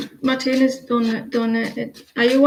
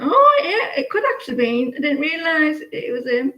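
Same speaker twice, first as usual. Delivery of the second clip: mock surprise; 4 semitones higher than usual. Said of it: "I was like".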